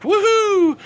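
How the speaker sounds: high, loud woohoo; whooping cheer. Real, not acted. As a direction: let out a drawn-out cheer. Cheering a viewer's message.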